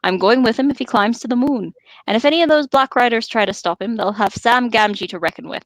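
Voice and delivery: put-on Sam's rustic English accent, stout and determined; a loosely held rustic Sam accent, defiant. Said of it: "I'm losing Sam's accent badly here".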